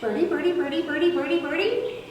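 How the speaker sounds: high chirpy birdie birdie over the recording; cardinal call imitation. Shown as a demonstration. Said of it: "Listen carefully".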